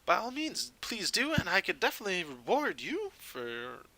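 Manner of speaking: a touch of polite, eager salesman; lightly acted, courteous gem buyer; lightly voiced shopkeeper. Game master plays the shopkeeper.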